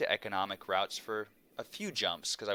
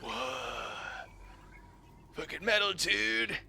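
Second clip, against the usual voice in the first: put-on awed teen; 8 semitones higher than usual. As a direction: play your wide-eyed thirteen-year-old self. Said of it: "being like".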